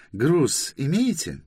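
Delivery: high, slow official's question; interrogating inspector. Acted. Inspector asks about cargo, slow officious question. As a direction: draw out the question, high-pitched.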